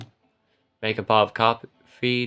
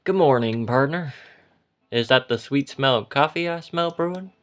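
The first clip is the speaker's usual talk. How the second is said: slightly raised, friendly character voice for Joseph; lightly voiced waking partner; 4 semitones higher, 3 dB louder than usual. Just-woken companion asks about the coffee brewing, lightly voiced.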